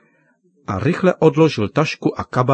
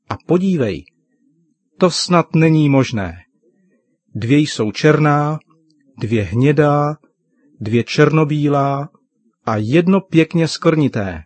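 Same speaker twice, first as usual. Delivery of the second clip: a touch higher, eager and delighted; father marvelling at the puppies; excited father; 3 semitones higher than usual. Acted. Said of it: "řekl nadšeně tatínek". (nadšeně, trochu výš a živěji)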